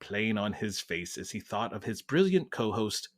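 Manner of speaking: measured British narrator; British accent. Acted. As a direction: Masterpiece Theatre host reading. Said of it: "We're going British".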